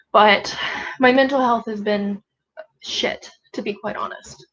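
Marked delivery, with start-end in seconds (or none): 2.8-4.5 whispered. Real, not acted. Unvoiced admission.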